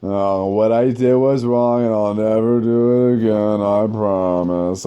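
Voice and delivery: hammed-up elementary school apology; mock apology like a schoolkid. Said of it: "I wasn't sorry, but I was like".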